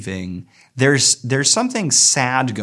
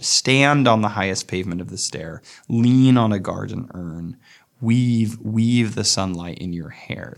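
poem reading. Acted. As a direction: let each line of the poem breathe. Rereads the first lines.

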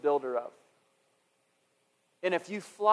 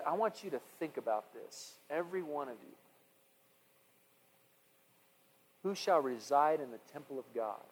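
scripture reading; 2 semitones lower than usual. Acted. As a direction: read the Psalm gently to the congregation. Reads the Psalm aloud.

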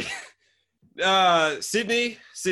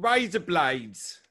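slow, drawn-out Australian "razor blades"; own Australian accent; 2 semitones higher, much slower than usual. Shown as a demonstration. Australian echoing the trick, deliberate Australian accent. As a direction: lean into the Australian vowels. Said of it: "can't do my own accent".

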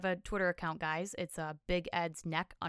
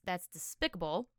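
wet, spitty lisp on every s; slobbery lisp. Pretend. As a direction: lisp it out sloppily, spit flying. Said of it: "I say with a slobbery lisp".

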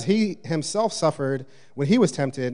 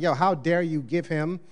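a hint of a resentful brother protesting; lightly hammed-up jealous brother's rant; older brother's complaint; 2 semitones higher than usual. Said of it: "He's like".

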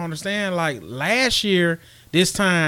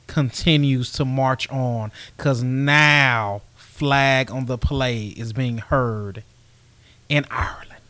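very slow, lower, measured announcement; mock-grand proclamation; 4 semitones lower, much slower than usual. Co-host announcing the empire marches on, mock-grand proclamation. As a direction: proclaim it word by word with great weight.

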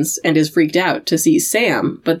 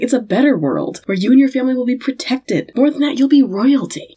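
sleazy salesman; 6 semitones higher than usual. Retold or imitated. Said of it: "drops into his salesman voice".

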